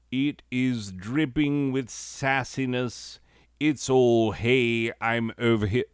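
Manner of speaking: put-on British accent. Joking reread of the slide in a mock British accent. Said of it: "pronouncing Latin with a British accent".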